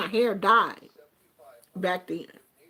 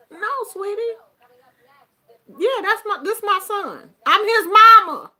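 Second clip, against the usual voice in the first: mock sweet correction; 8 semitones higher, 5 dB louder than usual. Retold correcting the son's friend.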